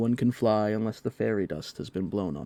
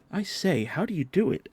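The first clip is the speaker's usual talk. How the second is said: put-on eager boy; 9 semitones higher than usual. A narrator's reading. John eager to fly.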